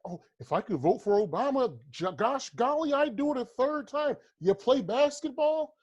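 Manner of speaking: slow, high, gushing mock voice; liberal white fan. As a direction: drag it out sweet and high like a condescending fan. Mocking liberal white racists.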